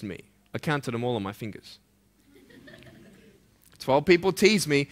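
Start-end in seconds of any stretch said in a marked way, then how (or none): 2.3-4.9 chuckling through the words; laughing. Real, not acted. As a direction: laugh at the memory while telling it. Laughs at his own childhood memory.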